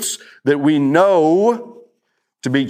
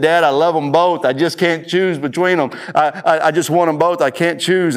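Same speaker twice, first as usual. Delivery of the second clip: mock-tearful plea, pitched higher; retold crying; 4 semitones higher than usual. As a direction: imitate an upset child pleading through tears. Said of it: "He's crying because he said".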